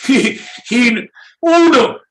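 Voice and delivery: put-on high, strained failed Swiss accent; attempted Swiss accent. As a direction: push a fake Swiss voice way up. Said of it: "See, I can't do it".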